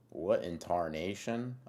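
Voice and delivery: slow, mock Southern old-timer exclamation; Southern accent. Reacting to a chat message in a slow mock Southern accent. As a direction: play up a hammed-up Southern bewilderment. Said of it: "Southern accent low-key gets me".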